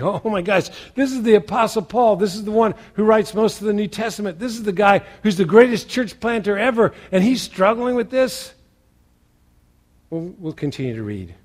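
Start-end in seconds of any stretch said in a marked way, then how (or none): 0.0-8.5 amazed disbelief. Pretend. Imagined listener amazed at Paul.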